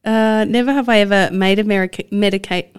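tripping over medication, getting stuck at medica- and landing on medicate; tongue-tied stumble. Real, not acted. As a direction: fumble the long word and trip up. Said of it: "Let me try that again".

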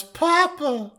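high-pitched wailed cry, hammed up; mock wail. Co-host voicing the dragon over the fallen slayer, mock wail. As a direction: wail it like a child calling for a parent. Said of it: "the dragon wails".

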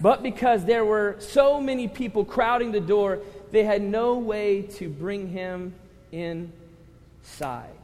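loud, forceful scripture reading; emphatic verse reading. Real, not acted. Pastor reading verse nineteen to the congregation, emphatic. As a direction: proclaim it to the room, drawing out the end.

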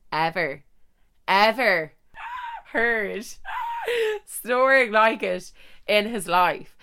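slow words breaking into laughter; laughing through words. Real, not acted. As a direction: giggle as you say it. Laughing at her own story.

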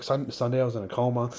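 "Sunday I was in a coma" said through a laugh; laughing quote. Retold or imitated. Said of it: "the way you said it was like".

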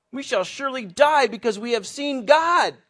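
high, loud, dramatic cry; exclaimed alarm. Acted. Manoah to his wife after seeing God, loud alarmed exclamation. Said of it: "Exclamation point".

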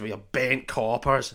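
slow mock Irish accent; drawn-out put-on Irish cop; Line of Duty officer. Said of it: "line of duty guy was there".

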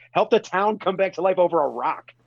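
very high, exasperated objection; incredulous protest. Acted. Fan answering Indy's "it's bullcrap", incredulous. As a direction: protest it like it's blindingly obvious. Acted retort to Indy's disbelief.

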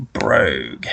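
a ghostly hiss on the surname; eerie whisper. Acted. Reading the ghost's signature aloud to friends, eerie whisper. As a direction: breathe the name out in a spooky whisper.

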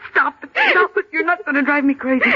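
shrill scared command; panicked shout. Acted. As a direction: yell her down before panic wins. Friend panics, orders her stop.

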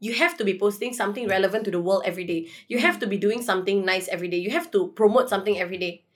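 fast, rattled-off demands; mock the nagging followers at speed; lecturing critics. A vlogger mimicking nagging followers, fast and preachy. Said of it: "a lot of people are like".

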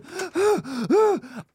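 sharp, high gasp of panic; panicked gasp alone in the car. Retold or imitated. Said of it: "I sat in the car going".

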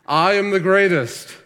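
loud, high boxer's boast; Ali's boast. Retold or imitated. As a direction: shout it out like a champion boxer bragging. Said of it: "Muhammad Ali would constantly say".

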